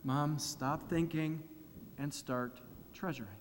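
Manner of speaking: slow, very soft reminder; gentle rebuke. Pretend. Jesus bringing his mom back on board, soft gentle rebuke. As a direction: hush her tenderly back on track. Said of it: "with a gentle rebuke".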